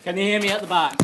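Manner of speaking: loud sharp voice; teacher voice. Real, not acted. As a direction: project to the back of the room. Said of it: "I'll have to put my teacher voice on".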